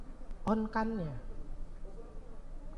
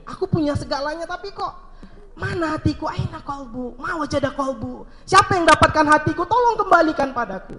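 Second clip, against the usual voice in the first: a higher, begging plea; pleading lament; 4 semitones higher than usual. Acted. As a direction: beg to have his heart returned. Youth pleading for his heart. (rintihan memohon dengan suara lebih tinggi)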